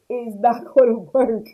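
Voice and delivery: laughing through the line; repeating the point with a laugh. Real, not acted. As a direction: break into a laugh mid-phrase.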